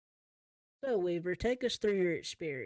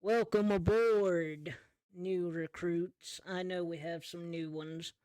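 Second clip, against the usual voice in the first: lightly voiced pirate boss, words stretched out; crocodile pirate captain. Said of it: "bigger crocodile walks down the stairs and says".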